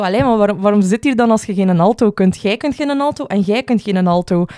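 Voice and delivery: a touch of indignant complaint; retold angry rant. Singer arguing with the soprano, mildly angry. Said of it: "mij daar echt nog kwaad in gemaakt".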